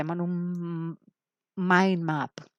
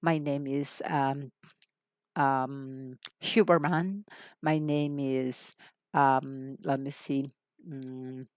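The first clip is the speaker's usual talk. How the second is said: imitating an English speaker; 3 semitones lower, much slower than usual. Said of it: "alguien puede decir".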